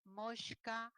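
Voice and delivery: mosca said moshka with sh; sh sound. Shown as a demonstration. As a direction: soften the s in mosca to sh. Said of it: "quiero que me escuches en fonético".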